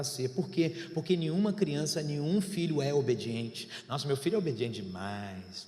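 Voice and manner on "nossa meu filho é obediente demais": proud parent. Retold or imitated. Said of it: "continuam dizendo".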